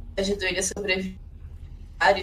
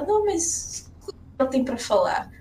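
imitating Faela; 5 semitones higher than usual. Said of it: "e falar".

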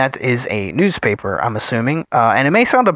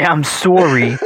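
"sorry" laughed through in a fake Canadian accent; mock Canadian, laughing; 3 semitones higher, slower than usual. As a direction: giggle through the Canadian apology. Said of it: "For your best accent yet".

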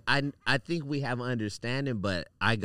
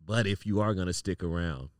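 sudden blunt demand; 6 semitones lower than usual. Retold or imitated. Punchline demand after consoling.

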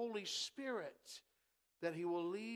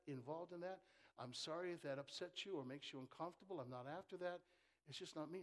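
gentle model answer; 3 semitones lower, 6 dB quieter, faster than usual. Retold or imitated. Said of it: "Why can't you just simply say that".

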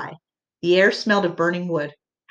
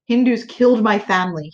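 a grieving man's words broken by sobs, a little higher and louder; sobbing; 3 semitones higher, 4 dB louder than usual. A narrator's reading. Grieving man sobs into his hands to the children, sobbing. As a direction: sob the words out in grief. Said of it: "he sobbed into his hands".

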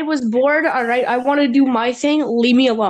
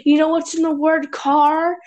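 lightly voiced mock teacher explaining cars to kids; 2 semitones higher than usual.

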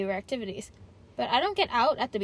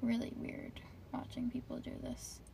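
hushed; 9 dB quieter than usual. Real, not acted. Whispering while watching.

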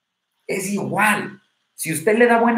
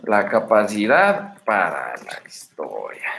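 title read; 8 semitones lower, much slower than usual. Acted. Announces TikTok title.

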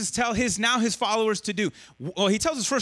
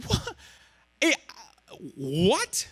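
gasping disbelief; much slower than usual. Retold or imitated. Preacher voices the crowd hearing Jesus, stunned disbelief. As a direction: act out a stunned listener lost for words. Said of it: "people would have just gasped".

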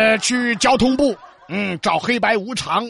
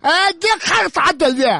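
slurring with a swollen tongue; big-tongue slur; 5 semitones higher than usual. Acted. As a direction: talk like your tongue is too big. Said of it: "大舌头".

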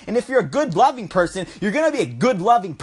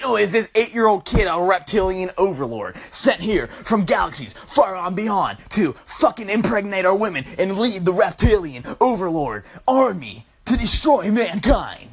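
lightly voiced mock clickbait narrator; mocking headline. Mocking Vice articles, a lightly voiced dramatic headline read. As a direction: read it like a silly tabloid teaser, slowed. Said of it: "They're like".

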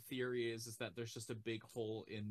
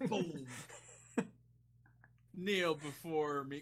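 dark lord; 3 semitones higher, 5 dB louder, slower than usual. Pretend. Villain demands submission.

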